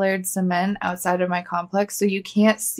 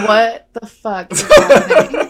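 voicing the dog; 8 dB louder than usual. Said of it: "He was like".

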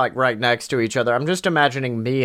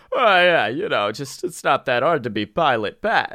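Patrick Warburton. Acted. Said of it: "Can you do an impression of Patrick Warburton".

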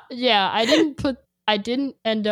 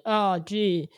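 mock self-pity, stretched out slowly; sarcastic; 4 semitones higher, slower than usual. Fan quoting a sarcastic song opening to a friend, sarcastic. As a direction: drag it out with fake dejection, pitch lifting. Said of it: "It's so sarcastic".

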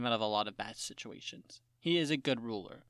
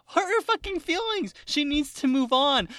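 higher, louder mock rant at the character; exasperated yell; 11 semitones higher, 6 dB louder than usual. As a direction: yell at the screen in disbelief. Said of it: "I'm like".

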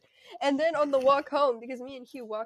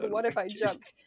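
deadpan. Retold or imitated. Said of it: "in the most deadpan voice".

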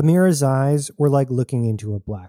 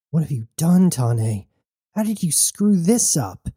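angry; 5 semitones higher than usual. Acted. Jazz finds the drone dead.

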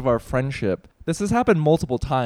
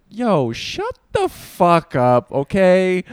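slow, drawn-out mock scolding; slow, disbelieving mock put-down to an ex; mock exasperated retort; 3 semitones higher, 4 dB louder, much slower than usual. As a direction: spell out how dumb the excuse is, slowly. Retorting to breakup excuse quote.

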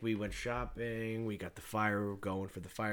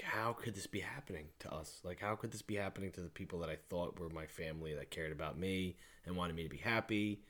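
hushed disbelief; 3 semitones lower, 6 dB quieter than usual. Retold or imitated. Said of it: "'Cause you're like".

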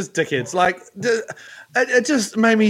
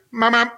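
short double horn honk; imitated car horn; 3 semitones higher than usual. Driver nudging car at green, imitated honk. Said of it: "on my horn".

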